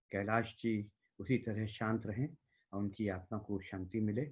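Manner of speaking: solemn tribute. Real, not acted. Host paying homage to Kailash for the Hindi community, solemn tribute. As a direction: deliver a quiet closing condolence speech.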